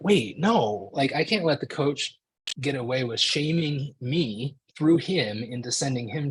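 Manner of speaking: indignant second thought, voice lifted; alarmed protest. Acted. Acting out his own protesting reaction.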